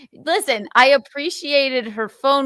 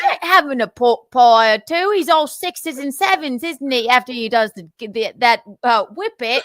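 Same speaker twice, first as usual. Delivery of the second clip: mock British accent. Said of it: "I can't say whippet in a British accent".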